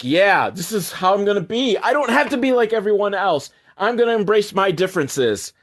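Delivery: a hint of a determined kid; resolute little girl. Little girl embracing her differences, lightly imitated resolve.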